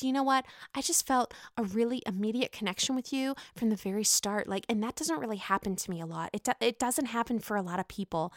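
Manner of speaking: mock Ramona gush. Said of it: "Ramona looks at Ebony and says".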